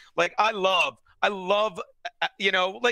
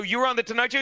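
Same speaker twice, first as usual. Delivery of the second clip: slightly higher mocking question that rises at the end; mock disbelief; 5 semitones higher, much faster than usual. Retelling the taunt to cohost, mock disbelief. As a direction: tease him by faking surprise. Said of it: "I go".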